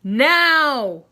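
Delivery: loud commanding demand; loud tiger command; stern order. Acted. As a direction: order it with full authority. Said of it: "the tiger ordered".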